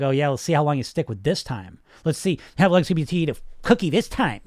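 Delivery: lightly mocking, sneering self-talk; mean inner voice. Voice in your head doubting you'll stick with this, mildly mean. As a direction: taunt the dieter a little, imitating an inner critic. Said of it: "it's this mean, shitty voice".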